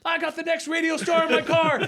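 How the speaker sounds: high manic laughing shout out a car window; Ace Ventura yell. Retold or imitated. Driver yelling out the window about his passenger, manic Ace Ventura shout. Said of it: "yelling out the window like Ace Ventura".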